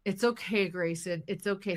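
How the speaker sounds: soothing. Retold or imitated. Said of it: "I have to look at her and be like".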